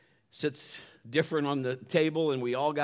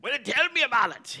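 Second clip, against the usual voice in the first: a hammed-up old sea pirate, a bit higher and louder; 10 semitones higher, 6 dB louder than usual. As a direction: play a jolly pirate greeting his old mate. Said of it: "my best pirate voice".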